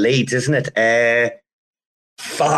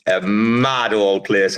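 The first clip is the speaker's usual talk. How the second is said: slow musing; 3 semitones lower, much slower than usual. Real, not acted. Echoing his own line.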